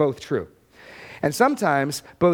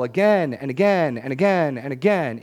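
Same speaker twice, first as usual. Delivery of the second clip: each "again" stressed in a rolling beat; insistent repetition. Real, not acted. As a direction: hammer every "again" in turn. Preacher hammers the repetition.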